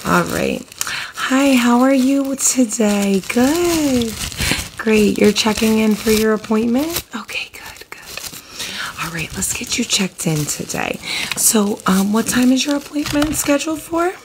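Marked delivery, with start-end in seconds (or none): 1.1-7.0 lightly voiced cheerful receptionist; a hint of front-desk sweetness, higher. Receptionist roleplay greeting patient. 7.1-11.0 soft whispered receptionist; ASMR whisper. Acted. Roleplay check-in whispered. 11.4-14.1 lightly voiced friendly receptionist. Receptionist asks details.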